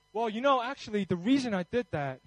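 mildly defensive, hurried over-explaining; a touch of flustered self-justifying. Acted. Preacher mimicking himself justifying what he did, defensive. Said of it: "I'm so, I'm so defensive".

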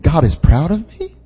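questioning, rising at the end; doubtful question. Retold or imitated. Preacher voicing listeners who stop and think, doubtful question. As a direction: ask it as if unsure it applies. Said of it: "many of us stop and we think".

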